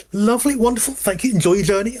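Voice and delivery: high chirpy brush-off; half-listening politeness. Acted. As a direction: nod along without listening. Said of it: "only half listening to the answer".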